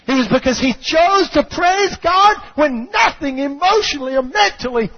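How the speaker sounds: high, emphatic sermon delivery; full-force preaching. Acted. Preacher explains the choice to praise, full-force preaching. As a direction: preach it with driving intensity.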